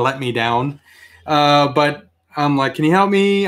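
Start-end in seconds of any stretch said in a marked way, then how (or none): 2.7-3.5 polite, slightly raised retold plea; polite request. Customer asking the cashier for help, politely. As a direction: ask nicely, lifting the voice a little. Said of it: "I was very polite".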